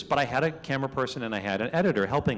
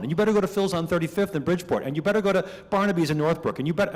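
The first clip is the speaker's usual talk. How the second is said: insistent pizza fans; 3 semitones higher, faster than usual. Retold or imitated. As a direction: hammer each demand like a know-it-all local. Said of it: "people start chiming in like you wouldn't believe".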